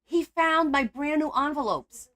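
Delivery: high, loud, slow lament; upset complaint. Real, not acted. Crafter telling her partner about the cat, loud upset lament. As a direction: drag it out in dismay.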